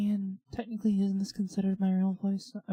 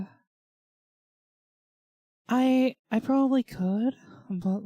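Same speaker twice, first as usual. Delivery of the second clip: put-on a lightly raised girl voice, held throughout; 3 semitones higher than usual. Told by wife to use girl voice for the stream, light girl voice. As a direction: lift into a put-on cute girl voice. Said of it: "you have to use your girl voice".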